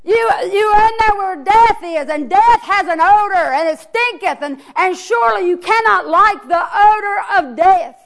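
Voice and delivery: hollered plea. Acted. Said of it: "Jesus hollers out again".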